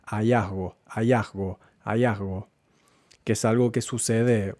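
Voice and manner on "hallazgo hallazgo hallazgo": hallazgo with the G softened to a faint breath; weak G. Shown as a demonstration. Teacher repeating the word with a weakened G. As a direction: let the G in hallazgo nearly fade. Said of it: "la G la pronuncia también ... de forma bastante débil".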